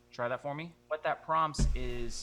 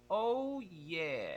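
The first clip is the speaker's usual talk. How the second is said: gentle vocal fry; 3 semitones higher than usual. Shown as a demonstration. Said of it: "Keep it gentle".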